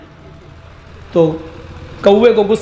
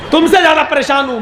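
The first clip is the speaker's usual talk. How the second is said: fast, higher, laughing through it; laughing insistence; 5 semitones higher, faster than usual. Retold or imitated. Crow repeats to the pigeon, laughing and fast. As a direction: repeat it with a laugh, pushing the point. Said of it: "मैं तुमसे ज़्यादा परेशान हूँ".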